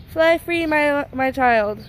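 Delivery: hammed-up high, loud send-off, slow on my child; theatrical goodbye to a bird; mock dramatic farewell. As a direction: play the grand tearful parent.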